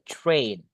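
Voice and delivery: TRAIN with an "ay" vowel; correct pronunciation. Shown as a demonstration. Teacher repeating the right form, TRAIN with "ay". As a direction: say TRAIN to rhyme with rain. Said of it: "like this one".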